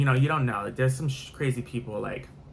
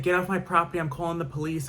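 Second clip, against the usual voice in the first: higher-pitched, mild imitation of screaming; retold mock scream; 5 semitones higher than usual. Customer warning the driver through the front door, mild mock scream. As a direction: act out a scream without really shouting. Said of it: "like, screaming through the front door".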